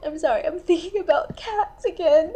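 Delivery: high, tearful apology; tears welling up as you apologize; starting to cry. Acted. Apologizing for thinking about cats again, tearful. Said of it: "promised myself I wouldn't cry".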